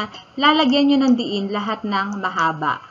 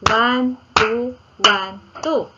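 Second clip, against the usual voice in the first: steady beat count, a short gap between counts; measured one-two count for music class; rhythmic counting; much slower than usual. Shown as a demonstration. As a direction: count the beats evenly. Counting beats of duple rhythm.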